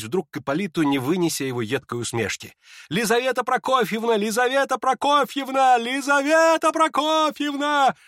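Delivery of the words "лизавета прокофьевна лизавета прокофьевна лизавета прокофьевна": rising, more urgent each time; calling out. Acted. Guests all try to stop Lizaveta, urgent rising calls. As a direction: call her name, louder and higher. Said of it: "послышалось разом со всех сторон".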